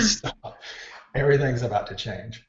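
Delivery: sharp high alarm on stop; urgent backstage warning. Retold or imitated. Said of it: "I tell everybody around me".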